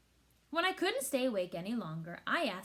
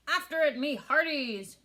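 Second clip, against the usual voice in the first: commanding; 4 semitones higher, 7 dB louder than usual. A narrator's reading. Captain orders crew after the ball, loud command. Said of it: "Braidbeard commanded".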